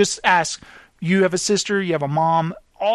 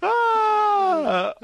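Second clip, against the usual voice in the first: post-laugh sigh; 13 semitones higher than usual. Real, not acted. Winding down after laughing.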